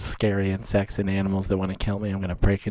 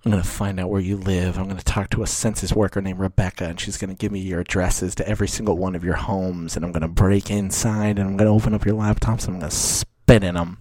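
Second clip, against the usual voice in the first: mock threat; 2 semitones lower, 4 dB louder than usual.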